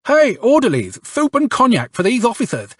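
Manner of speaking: high, eager, fawning orders; ingratiating. A narrator's reading. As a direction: flatter the officers while ordering soup. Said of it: "he says ingratiatingly".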